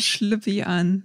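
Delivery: slow, drawn-out Schlüppi an; slow emphatic. Acted. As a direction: spell out "Schlüppi an" slowly and stressed. Motto repeated slowly.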